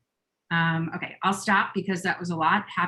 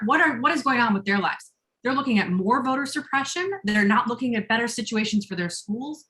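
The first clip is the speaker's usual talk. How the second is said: getting emotional; 3 semitones higher than usual. Real, not acted. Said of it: "Sorry, I'm getting a little emotional".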